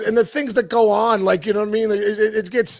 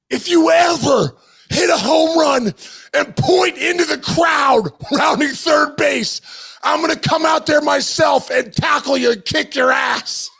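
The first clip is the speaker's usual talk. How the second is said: furious mock yell; 6 semitones higher, slower than usual. Furious teammate yelling at the rookie, angry slow shout. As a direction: bark it out like an angry veteran. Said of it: "He's like".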